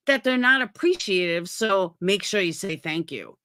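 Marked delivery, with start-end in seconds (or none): 1.5-3.4 half-hearted preachy reminder; mock creator reminder. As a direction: lightly mimic a creator nagging viewers. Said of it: "you think they're so dumb".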